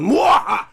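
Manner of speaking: a short hammed-up villain cackle; mock villain laugh. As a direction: burst out a quick mock evil laugh. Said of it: "And he's just laughing".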